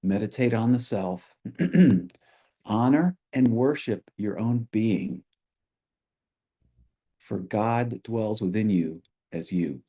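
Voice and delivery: the quote given phrase by phrase, with pauses; contemplative repeat. Real, not acted. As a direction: let each phrase of the teaching settle before the next. Same quotation repeated for contemplation.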